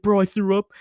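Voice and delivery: high, loud mock-panicked protest; retold panic. Stoned teen insisting to his friend he is in trouble, mock panic. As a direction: protest loudly, pitch jumping up.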